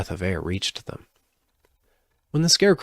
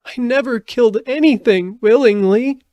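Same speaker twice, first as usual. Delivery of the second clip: put-on high, loud tearful girl's cry; a distraught little girl crying out; sobbing; 8 dB louder than usual. A narrator's reading. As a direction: plead through tears, pitched way up and loud. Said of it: "she sobbed".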